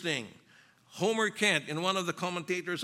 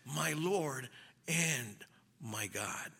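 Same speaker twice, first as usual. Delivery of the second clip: slow, soft near-whisper; hushed awe; 4 semitones lower, 6 dB quieter, much slower than usual. Acted. Doubting Thomas seeing the evidence of Christ, hushed awe. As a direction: breathe it slowly, as a reverent confession. Thomas's awed confession acted out.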